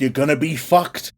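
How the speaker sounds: low-pitched, matter-of-fact warning; lightly voiced doom prophet; prophet's warning. Jonah warning everybody of what is coming, low-key prophecy. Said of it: "goes and warns everybody".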